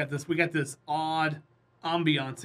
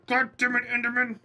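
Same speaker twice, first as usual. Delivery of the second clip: frustrated yell; 9 semitones higher, 6 dB louder than usual. Real, not acted. Block ruined by Enderman.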